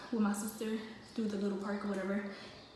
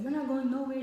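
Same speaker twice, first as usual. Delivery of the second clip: higher-pitched, insistent mom; retold forbidding, voice lifted; imitated firm refusal; 4 semitones higher, 4 dB louder than usual. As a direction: imitate mom putting her foot down. Mom forbidding her to leave.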